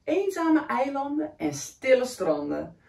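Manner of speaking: put-on lively read-aloud for a child; story reading. A narrator's reading. Reading a picture book to a young child, lively. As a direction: read the picture book warmly to a little one.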